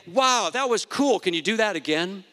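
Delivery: playful imitation of being impressed; mock amazement. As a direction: act out an impressed onlooker. Imagined excited reaction to miracle.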